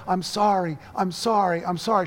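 mild sob-broken sorry, repeated; tearful apology. Acted. Mother apologising to her daughter between sobs, mildly tearful. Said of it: "in between the sobs".

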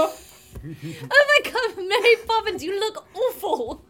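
drawn-out theatrical astonishment; mock horrified shock. Child seeing revived Mary Poppins, hammed-up shock. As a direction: gasp the words in mock horror.

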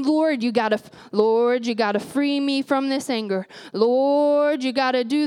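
a hint of grandma calling "Lord"; praying like grandma. Imitating her grandma's pleading prayer in a mild voice. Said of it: "I'm praying like my grandma".

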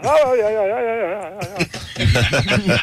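high wailing chant that fades away; mumbling uncle. Acted. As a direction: mumble yeahs in a fading, chanting wail. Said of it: "He just sits there mumbling".

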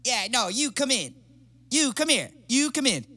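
a friend calling him out, getting angrier; angry confrontation. Retold or imitated. Angry friend voiced in story.

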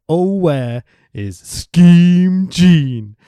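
put-on half-done accent, slow drawn-out promo delivery; half-committed wrestler accent, each phrase stretched and left hanging; Scott Hall. Wrestler challenging the crowd from the ring, half-done accent. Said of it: "I'm half doing the accent".

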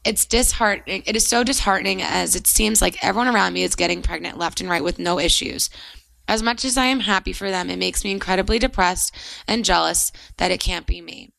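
measured read-aloud of a listener's letter. Real, not acted. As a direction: read it out clearly, phrase by phrase.

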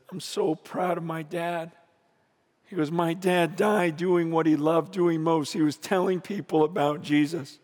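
low, soft voice of a grieving son; retold tearful pride. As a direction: quietly voice a son's pride in grief. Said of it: "he's crying".

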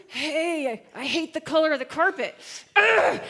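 irritable griping that bursts into a loud groan; mock screaming complaint. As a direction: act out a petty tantrum. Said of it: "you're, like, screaming about the carpet".

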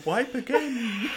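high, slow laughing. Real, not acted. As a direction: drag the words while laughing. Joking in Celt voice, laughing.

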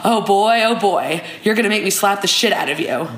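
a hint of an exasperated reality-show guy; mock-annoyed, barely put on; Alonzo, lightly acted. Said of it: "I will be playing the role of Alonzo".

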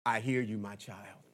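deep, low, distant God voice; deep mock God voice. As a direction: boom softly from above, like God. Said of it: "God speaks".

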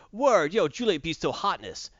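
mock street slang, loud and high; hammed-up slangy Romeo. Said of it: "I'm not talking about".

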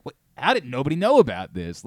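excited. Retold or imitated. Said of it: "now all of a sudden I'm excited".

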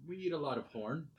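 imitating a Colombian accent. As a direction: imitate the Colombian client with a lilt. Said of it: "I guess I am gonna imitate the accent".

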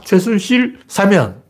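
the hidden meaning, said slowly and pointedly; slow pointed reading. Shown as a demonstration. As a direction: spell out 최순실 사면 slowly, word by word. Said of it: "이렇게 들어야 됩니다".

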